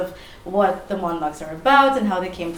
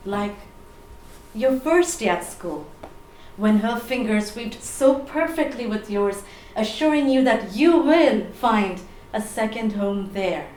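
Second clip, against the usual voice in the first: spoken word poem. Acted. Poet remembering a lost mother, dramatic spoken word. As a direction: recite with deliberate pauses, surging and falling back. Performs her poem on grief.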